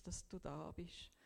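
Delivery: whispered prayer, barely voiced. Alone on the mountain, thanking Jesus in a whisper.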